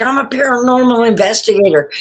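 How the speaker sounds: imitated eager request, rattled off; retold excitement. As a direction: mimic an excited guy asking fast. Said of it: "he got all excited".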